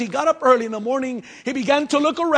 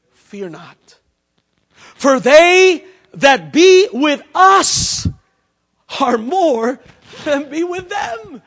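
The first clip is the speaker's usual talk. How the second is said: calm assurance; 2 semitones higher, 4 dB louder, much slower than usual. Acted. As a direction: settle his fear, then promise strength. Elisha calmly answers servant.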